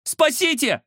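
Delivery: very high scream for help; terrified cry for help. Acted. Alisa sees the ghost, screaming for help. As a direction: cry out in terror. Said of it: "крикнула Алиса".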